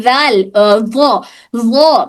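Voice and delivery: slow heavy وا; contrast demo. Shown as a demonstration. Teacher contrasting two letters. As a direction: drag out a thick وا. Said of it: "زال اور وا میں کیا فرق ہے".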